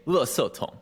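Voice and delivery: "le se tong" in Taiwanese Mandarin. Shown as a demonstration. Showing a host the Taiwanese word for trash can, Taiwanese Mandarin. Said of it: "in, in Taiwanese Mandarin, we say trash can".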